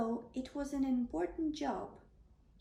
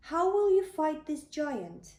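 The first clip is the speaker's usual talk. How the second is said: disbelieving king; 5 semitones higher, 7 dB louder than usual. Acted. The king doubting David.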